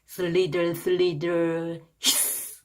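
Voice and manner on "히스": gentle snake hiss. Shown as a demonstration. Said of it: "이렇게 가는 거죠".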